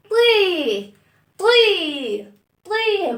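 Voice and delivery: طي with a thin bright ee; broken ee sound. Shown as a demonstration. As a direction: break the sound into طي. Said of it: "هنكسر الصوت".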